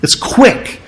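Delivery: preacher whispers "It's quick" to stress the word; whispered emphasis. Shown as a demonstration. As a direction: breathe "quick" as a secret. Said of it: "And that's the word".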